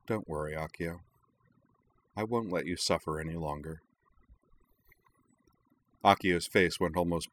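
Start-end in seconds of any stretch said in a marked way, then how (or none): 0.0-3.8 soft, gentle and soothing; full of compassion. Acted. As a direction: comfort him softly. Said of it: "her voice full of compassion".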